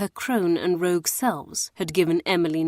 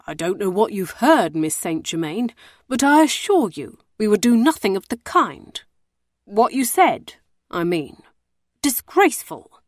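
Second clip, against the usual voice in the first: mild mock outrage, a touch louder; harumphing warder; 3 semitones higher, 4 dB louder than usual. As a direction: bluster in outrage to cover himself. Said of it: "he harumphed loudly".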